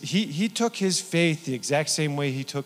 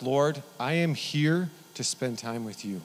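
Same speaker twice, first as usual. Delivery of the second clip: sample prayer. Shown as a demonstration. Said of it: "sit there and be like".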